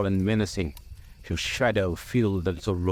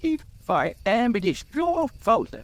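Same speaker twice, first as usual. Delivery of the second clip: angry; 14 semitones higher than usual. A narrator's reading. Bilbo blames Gandalf for his temper, angry. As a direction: throw the blame back in a high voice. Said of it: "no need to get angry".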